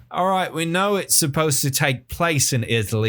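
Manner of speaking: comic complaint from the crowd; fed-up audience member. Acted. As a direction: protest like an exasperated theatregoer. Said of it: "all the people in the audience are just like".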